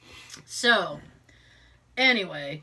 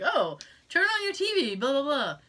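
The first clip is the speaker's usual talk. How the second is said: mock TV-movie caller; 3 semitones higher than usual. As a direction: imitate a film character phoning in. Voices the TV phone call.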